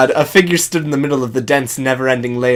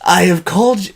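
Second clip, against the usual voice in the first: a touch higher, bold heroic read; 5 semitones higher than usual. Acted. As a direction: address the troops like a hero.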